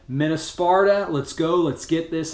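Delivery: loud team rally call; rallying cry. Real, not acted. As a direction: pump the team up. Rallying the group at the end.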